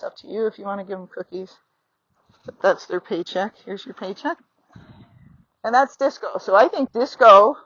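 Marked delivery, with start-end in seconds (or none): 3.6-4.4 hushed, tender praise to the horse; soft reward. Real, not acted. Rider softly rewarding her horse with a cookie. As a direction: murmur it as you hand over the treat.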